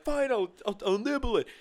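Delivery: high squeaky reluctant offer; squeaky bargaining voice. Acted. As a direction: squeak out a grudging deal.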